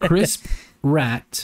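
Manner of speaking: "Chris Pratt" as "Crisp", a pause, then "Rat"; deliberate mispronunciation. Shown as a demonstration. Repeating the joke name for the co-host, "Chris Pratt" as "Crisp Rat". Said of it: "say it like that on purpose every time".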